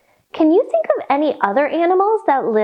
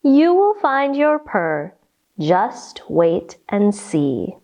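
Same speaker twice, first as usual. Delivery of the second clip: tender mother; 4 semitones lower, slower than usual. Acted. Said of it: "her mother replied".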